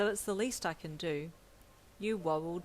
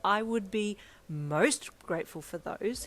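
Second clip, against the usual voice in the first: louder, slower delighted exclamation; exclaiming; 2 semitones higher, 7 dB louder, slower than usual. A narrator's reading. Editor accepting the exclusive pictures, loudly delighted. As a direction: burst out gratefully. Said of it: "he exclaimed".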